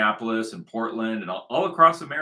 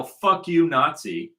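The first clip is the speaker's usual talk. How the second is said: mock yell at protesters, a bit louder and higher; retold yell; 3 semitones higher, 4 dB louder, slower than usual. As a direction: imitate the protesters yelling. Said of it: "came out to yell".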